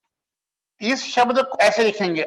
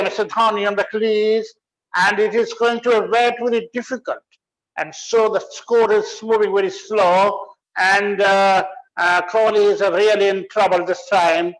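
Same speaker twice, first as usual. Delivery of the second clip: 1 mock commentator; much slower than usual. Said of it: "तो वहां कैसे बोलते हैं".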